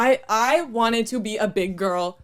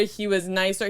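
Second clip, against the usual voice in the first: normal talking voice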